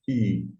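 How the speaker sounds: I said clean and pointed; exact I sound. Shown as a demonstration. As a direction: hit the pure I vowel. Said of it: "Se for tentar ser mais exato".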